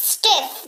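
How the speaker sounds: STIFF said as "स्टिफ" in one quick syllable; एक syllable में. Shown as a demonstration. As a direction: say "स्टिफ" in a single burst. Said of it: "एक बार में फटाक से". ("स्टिफ" एक झटके में बोलें)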